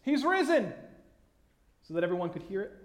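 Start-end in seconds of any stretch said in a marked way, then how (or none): 0.0-0.7 high, ringing shout, each cry set apart; loud proclamation. Acted. Preacher voicing angels announcing the resurrection to all the earth, loud proclamation. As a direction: proclaim it loudly like a herald. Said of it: "they would loudly proclaim".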